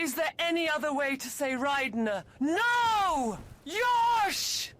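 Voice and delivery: fast mock-indignant shout; mock insistent shout. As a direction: rattle it off and shout it. Insisting on pronunciation.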